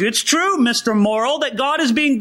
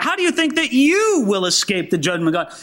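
"you" leaned on, bearing down; emphatic question; 3 semitones higher than usual. Shown as a demonstration. Preacher bearing down on his reader with emphasis. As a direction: press hard on "you", pinning the reader. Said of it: "And he's emphatic in it".

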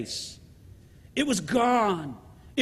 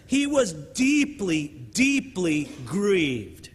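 slow grave; 4 semitones lower, much slower than usual. Real, not acted.

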